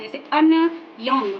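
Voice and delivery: अनयोंग said slowly and carefully, stretching each syllable; teacher demo of अनयोंग; slow clear demo. Shown as a demonstration. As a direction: spell out अनयोंग slowly for learners. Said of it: "अनयोंग में भी इसका use किया जाता है".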